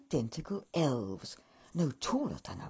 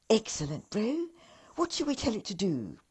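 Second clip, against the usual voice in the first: louder, quick keen elf; 3 semitones higher, 3 dB louder, faster than usual. Acted. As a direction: elf rushing with excitement. Elf eager to command.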